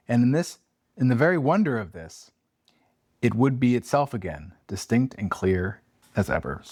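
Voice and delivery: measured, slowed storybook narration; story reading. Acted. Host reads the ghost passage to Abby, hushed storytelling. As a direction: read the passage with gentle suspense.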